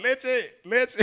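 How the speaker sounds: retold scream. Man with burning eyes crying for milk, retold scream. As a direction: imitate panicked squealing for milk. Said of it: "I was screaming".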